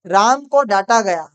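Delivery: teacher dictating to class, slow and clear; slow dictation. Shown as a demonstration. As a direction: read the sentence slowly for the class. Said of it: "next question".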